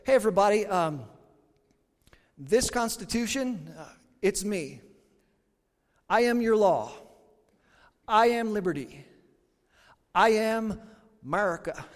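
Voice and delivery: hammed-up self-proclaimed hero; a grand, mock proclamation; lightly acted pompous declaration; mock grand claim. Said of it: "and I said".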